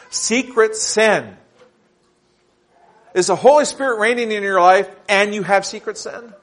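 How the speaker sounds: emphatic preaching. Real, not acted. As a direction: hit each point hard and challenge the congregation. Preaches sermon points forcefully.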